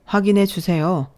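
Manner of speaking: mildly firm repeated request; acted insistence, a touch firmer. Surgeon repeats request after brush-off.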